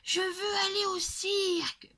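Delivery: put-on very high, loud child's exclamation; child crying out. A narrator's reading. Girl glaring at her father, crying out loudly. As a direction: cry it out like a defiant little girl. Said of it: "s'écrie".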